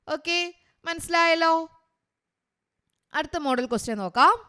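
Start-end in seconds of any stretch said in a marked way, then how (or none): none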